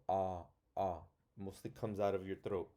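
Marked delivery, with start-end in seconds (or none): 0.1-1.0 throaty "Ah, ah"; saying ahh. Shown as a demonstration. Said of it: "you kind of feel it in your throat".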